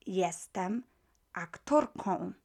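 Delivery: jestem aktorką said slowly and clearly in Polish; teacher models jestem aktorką carefully; Polish model phrase. Shown as a demonstration. Teacher modelling Polish for learners, careful and clear. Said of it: "the correct way of saying".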